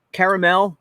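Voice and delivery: "caramel" said CARE-uh-mell; three-syllable caramel. Shown as a demonstration. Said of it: "what are you, caramel or caramel".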